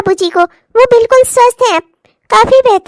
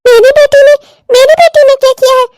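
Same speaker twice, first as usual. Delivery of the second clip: loud, affronted question; indignant disbelief; 4 dB louder than usual. Acted. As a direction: challenge the accusation against your child. Mother reacts to accusation of daughter.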